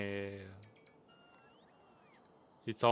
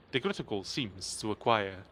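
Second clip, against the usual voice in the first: lightly voiced nature documentary narration, a bit lower; mock-serious wildlife narrator, hushed and measured; 4 semitones lower, 7 dB quieter than usual. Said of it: "listen to a documentary by me".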